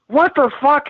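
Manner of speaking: high, incredulous "what the fuck", imitating; stunned outburst. Retold partner's stunned reaction.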